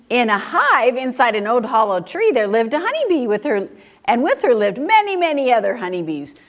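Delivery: lilting storybook narration; story reading to children. A narrator's reading. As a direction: unfold the story for small listeners. Reads second book aloud.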